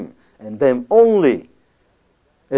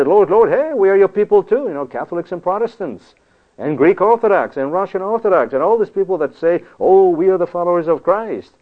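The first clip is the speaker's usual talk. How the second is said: higher, louder mock plea to the Lord; pleading believers; 6 semitones higher, 3 dB louder than usual. Preacher mimics churchgoers pleading with God, higher and louder. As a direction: whine it like people begging to be let in.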